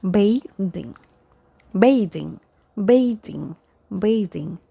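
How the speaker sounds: bathing as BAY-dhing, voiced th; correct pronunciation. Shown as a demonstration. Teacher models bathing for learners, correct pronunciation. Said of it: "so it is bathing".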